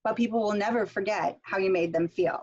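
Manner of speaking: "But people will never forget how you made them feel," as one chunk, then stop; pause after the thought group. Shown as a demonstration. Teacher to students, reading the quote in chunks. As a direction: end the chunk with a clear stop.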